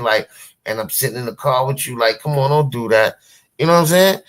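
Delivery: lightly mock-pleading Faith; a hint of a pastor begging for respect; imitating Faith. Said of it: "You not even turning to her like".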